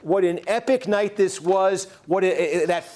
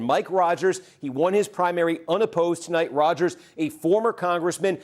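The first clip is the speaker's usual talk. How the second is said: formal, measured news read; serious newscaster voice. Acted. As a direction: read it like a network anchor. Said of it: "put on the serious newscaster voice".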